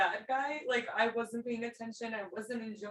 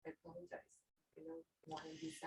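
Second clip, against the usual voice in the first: tearful; 9 semitones higher, 13 dB quieter, much faster than usual. Real, not acted. Student crying after being yelled.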